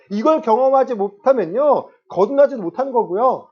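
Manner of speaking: loud, high-pitched sermon delivery; impassioned preaching. Real, not acted. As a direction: preach it forcefully, driving each point home. Returns to forceful preaching.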